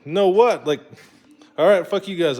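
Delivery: loud, high-pitched exasperation; acted indignant retort. Customer refused by a random store worker, acted indignant retort. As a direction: fire back at a curt refusal.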